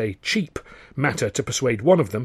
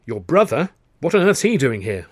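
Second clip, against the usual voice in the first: mildly incredulous question; baffled; 2 semitones higher, 4 dB louder than usual. Acted. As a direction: ask in puzzled surprise. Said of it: "I said, baffled".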